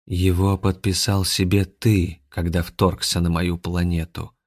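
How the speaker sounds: slow, measured alien reply; voice of Beta Nigenoshi. Acted. Nikitin's symbiont answers the invader, slow cold voice. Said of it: "голосом Бета-нигеноши".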